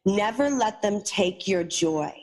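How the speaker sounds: slow, earnest words of wisdom; solemn parting advice. Retold or imitated. Homeless man tells the narrator a lesson, slow and earnest. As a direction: lay it on her gently and slowly.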